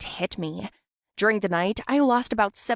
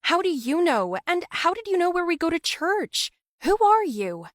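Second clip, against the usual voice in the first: yelling through a door; 9 semitones higher, 3 dB louder than usual. A narrator's reading. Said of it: "I yelled at May".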